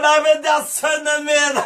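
father's joyful realisation; overjoyed recognition. Acted. Father recognising his son far off, overjoyed. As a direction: burst out in happy disbelief.

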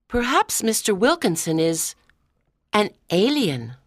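hesitant, with a pause mid-sentence; slowly. Acted. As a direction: hold back before the last words. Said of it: "I said slowly".

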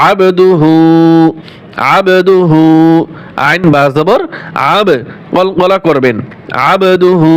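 আবদুহু with bouncing echo on b; qalqala. Shown as a demonstration. Teacher showing qalqala on the b. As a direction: give the b in আবদুহু a little bounce. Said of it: "এখানে কলকলা হবে".

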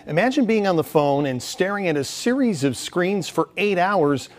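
measured live-report delivery; reporter news read. Acted. Reporter tossing from the anchor into his package, news read. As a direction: lay out the story for the audience.

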